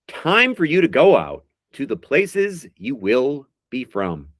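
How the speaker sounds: slow, drawn-out recital of song lyrics; dramatic lyric reading. Acted. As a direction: read each line like a heartfelt poem. Reads lyrics as quiz clues.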